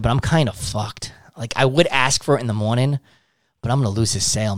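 defeated. Shown as a demonstration. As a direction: let the words sink, beaten and quiet. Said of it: "when you are defeated".

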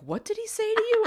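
high, loud words through a sob-laugh; squeezed out through tears; teary high quote; laugh-crying quote. Retold or imitated. Boss asking, retold through laugh-cry.

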